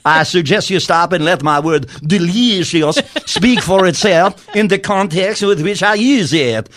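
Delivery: lightly put-on French accent, playing an offended Macron; a mock Macron defending his word "delicious"; fake French accent. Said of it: "I'm not doing French. I'm doing just something".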